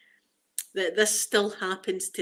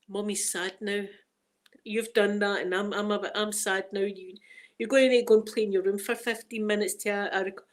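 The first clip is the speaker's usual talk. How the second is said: mock sad mum. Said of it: "all I would need to say".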